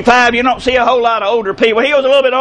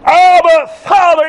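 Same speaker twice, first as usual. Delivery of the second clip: high, raised preacher's cry; 4 semitones higher than usual. Acted. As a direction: call out fervently to the Father. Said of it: "when we cry".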